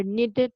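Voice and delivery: "needed" in two syllables, ending in id; sounded -ed vowel. Shown as a demonstration. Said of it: "We're going to pronounce the, the vowel".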